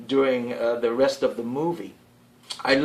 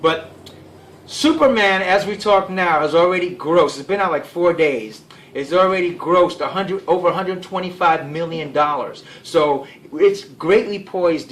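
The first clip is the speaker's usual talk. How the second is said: louder to carry over rotor noise; yelling over helicopter; 4 semitones higher, 5 dB louder than usual. Real, not acted. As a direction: raise your voice over a passing helicopter. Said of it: "Excuse the helicopter going by".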